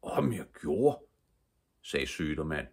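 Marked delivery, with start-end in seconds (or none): 0.0-1.0 lightly voiced old man, drawn out; slow, emphatic grandfatherly exclamation; grandfather's emphatic reply. A narrator's reading. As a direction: answer slowly with a higher lilt. Old grandfather answers excited girl.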